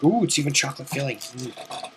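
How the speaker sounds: talking while chewing; mouth full. Real, not acted. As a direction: say it through a mouthful of cake. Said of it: "take a bite out of this Christmas log".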